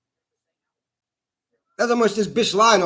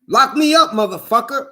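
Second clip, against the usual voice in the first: mock yell. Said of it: "and I'm yelling".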